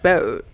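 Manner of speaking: boat with her regional long O; accented vowel. Retold or imitated. Showing how she says boat, accented vowel. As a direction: say boat with a local O. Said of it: "I say the word boat and home wrong".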